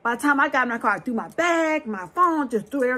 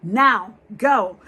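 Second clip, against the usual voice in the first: loud, urgent "go now"; the Holy Spirit warning her to leave, loud and urgent; urgent command; 7 dB louder, much slower than usual. Retold or imitated. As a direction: call it out as a sharp urgent warning. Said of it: "the Holy Spirit again said".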